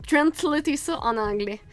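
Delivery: attempted English accent on a French verb. Real, not acted. French speaker joking about translating into English, attempted English accent. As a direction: say it with a self-mocked English accent. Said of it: "Vous avez vu mon bel accent".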